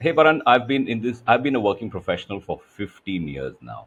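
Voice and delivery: settling down on "fifteen years now"; highlighting. Shown as a demonstration. Coach showing a better way to highlight the number. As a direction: land it firmly, falling. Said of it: "if you highlighted it by saying".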